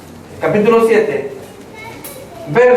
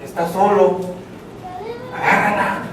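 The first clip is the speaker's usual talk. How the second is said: tempting inner voice; 6 dB quieter than usual. Acted. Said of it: "Una voz que le dice".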